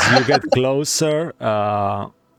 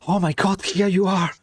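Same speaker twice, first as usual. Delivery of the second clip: lightly put-on Russian accent, raised pitch; relieved soldier with a hint of Russian; a touch of Russian accent; Russian-tinged accent; 8 semitones higher than usual. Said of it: "I forgot his, this accent".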